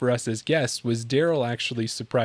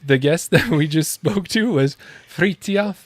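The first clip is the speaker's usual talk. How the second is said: put-on "Fritjof Fagergren" slow, in a playful Swedish accent; a slow, hammed-up Swedish name with a laugh; 2 semitones higher, slower than usual. Host playfully attempting the Swedish guest's name in accent. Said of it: "you gotta have the rolling of the R's".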